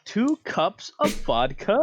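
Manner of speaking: slow mock Russian accent; hammy Russian, drawn out. Player as Sig repeating in a mock Russian accent. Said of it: "Are we dealing with a Russian?".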